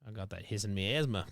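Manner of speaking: put-on lightly done Australian accent. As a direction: joke in a mild Australian twang. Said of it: "It's Australian".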